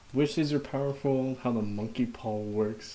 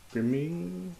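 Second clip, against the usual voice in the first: high-pitched grimming; 8 semitones higher than usual. Pretend. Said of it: "repeats word, pitch climbing".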